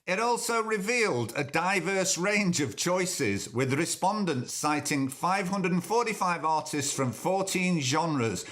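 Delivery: reading the article aloud; news read. Shown as a demonstration. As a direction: read it like a report. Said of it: "this is what they said".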